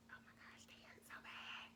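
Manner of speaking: breathless whisper through the pain; whispering through a contraction. Retold or imitated. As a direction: barely voice it, hurting. Reliving contractions at the bed.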